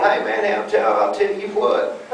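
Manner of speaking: put-on Texan accent. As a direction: imitate a cartoon Texan. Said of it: "not everyone from Texas going".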